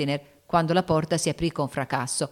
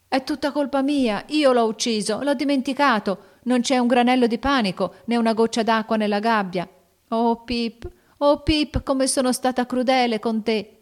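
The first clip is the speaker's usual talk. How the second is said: high, loud, tearful wailing over the dead bird; crying out in grief; 7 semitones higher, 5 dB louder than usual. A narrator's reading. Beth wailing over her dead canary, high loud sobbing cry. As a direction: cry it out, heartbroken and guilty. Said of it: "gridò Beth".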